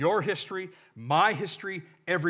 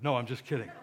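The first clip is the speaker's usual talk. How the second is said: laughing; 6 semitones lower, 5 dB quieter, faster than usual. Real, not acted. Laughing at own joke.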